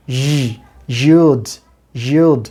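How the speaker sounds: ই alone, then you'd with the same buzzing y; deliberate drill from ই to you'd; model y sound. Shown as a demonstration. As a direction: say you'd with firm y and long oo. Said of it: "সাউন্ডটা এভাবে হবে".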